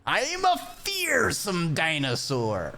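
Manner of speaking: hammed-up roaring dinosaur; playful tyrant dinosaur demanding fruit; mock dinosaur. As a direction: roar like a silly monster. Playing a fearsome dinosaur.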